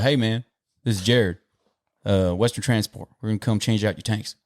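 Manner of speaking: lightly folksy imitation of himself on a call; casual work voice. Driver calling plant workers again, informal folksy voice. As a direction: drop the formality, mildly countrified. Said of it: "So finally I was like".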